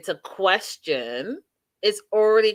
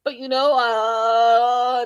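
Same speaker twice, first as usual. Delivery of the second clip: nervous fumbling; 4 semitones higher than usual. Retold or imitated. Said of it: "he gets all nervous, uh, loses his train of thought".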